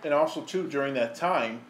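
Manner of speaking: talking through a mouthful of food; words around a bite of burger; mouth full. Real, not acted. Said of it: "sorry, I got food in my mouth".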